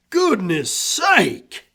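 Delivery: slow, high drawn-out Goodness; surprised exclaim. A narrator's reading. Old friend hearing about the dog, slow high surprise. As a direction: stretch out Goodness high in amazement.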